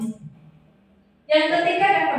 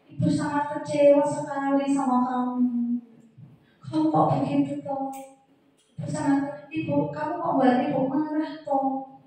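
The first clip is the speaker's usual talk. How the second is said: teacher making a pupil feel guilty, softly; soft disappointed voice; 5 dB quieter than usual. Shown as a demonstration. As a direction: speak gently, let the disappointment sink in. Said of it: "bersuara lebih lembut".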